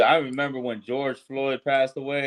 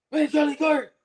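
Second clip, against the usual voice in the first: much higher, bright sing-song greeting to the camera; mock self-filming shout; 14 semitones higher than usual. Mocking the man who filmed himself, hammed-up high greeting. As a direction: play the shooter cheerfully hailing his phone. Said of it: "and then".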